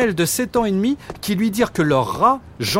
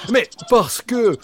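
higher, drawn-out dog voice; slow dog voice; 6 semitones higher, slower than usual. Acted. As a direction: stretch it out as the dog. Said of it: "répondit Jean Waf". (voix de chien, plus aiguë et lente)

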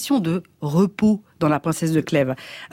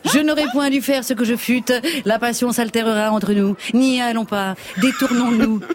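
haughty aristocratic french; 4 semitones higher than usual. Acted. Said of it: "je joue la princesse de Clèves".

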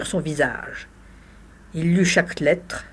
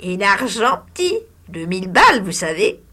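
higher, sly grating voice; grating hag; 3 semitones higher, 4 dB louder than usual. Acted. The hag haggles with the lawyer, sly grating voice. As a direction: wheedle for money like a crone. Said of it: "grinça".

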